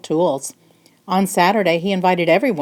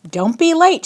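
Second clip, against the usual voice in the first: a loud, high call after them; 10 semitones higher, 5 dB louder than usual. Acted. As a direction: call out as they leave. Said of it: "she called".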